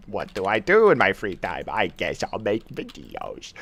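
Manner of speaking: a hint of worn-out monotone; tired work voice. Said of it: "that's what I sound like, by the way, when I'm at work".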